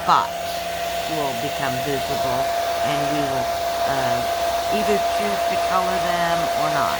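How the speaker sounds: talking over blow dryer. Real, not acted. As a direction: speak up over the hair dryer. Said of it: "I know I'm talking over the blow dryer".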